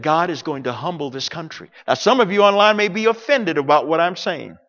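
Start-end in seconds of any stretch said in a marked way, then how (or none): 0.0-1.7 softly quoting her warning, lowered; quiet quote. Retold or imitated. Preacher quotes the Iranian woman's warning, low and hushed. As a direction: let the words drop low and hushed. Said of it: "But she said".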